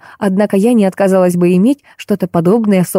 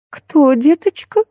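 bewildered; 9 semitones higher, slower than usual. Acted. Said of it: "растерялась Раиса".

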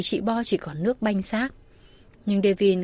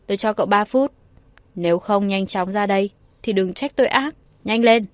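loud threatening command; shouting angrily; 4 dB louder than usual. Acted. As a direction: yell through the door, threatening. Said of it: "Devin quát lớn".

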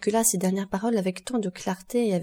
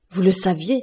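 terrified cry; 5 dB louder than usual. Acted. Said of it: "avec un tel paroxysme de terreur".

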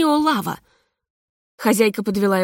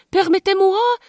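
high, mannered Permettez-moi; affected; 11 semitones higher, 3 dB louder than usual. A narrator's reading. Hostess mincingly introduces herself. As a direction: preen as you say it. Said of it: "зафинтила хозяйка".

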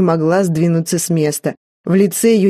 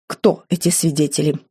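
frowning question; 2 semitones lower, 3 dB quieter than usual. A narrator's reading. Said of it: "нахмурилась свекровь".

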